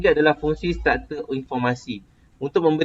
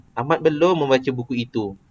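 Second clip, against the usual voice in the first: "belum" lifted, then falling through "membaca buku itu"; plain declarative, slight peak on "belum"; even statement falling to "itu"; statement tune. Shown as a demonstration. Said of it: "cara kita sebut sama je".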